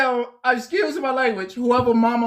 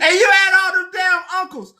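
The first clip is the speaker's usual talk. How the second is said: loud laugh-choked rant; crying-laughing yell; laughing shout; 4 semitones higher, 4 dB louder, faster than usual. Real, not acted. Laughing rant about uncles.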